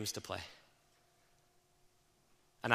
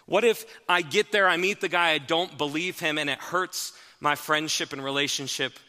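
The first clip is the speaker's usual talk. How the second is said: Nathanael's worried thoughts; 4 semitones higher, 7 dB louder than usual. Acted. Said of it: "Nathanael probably thought things like this".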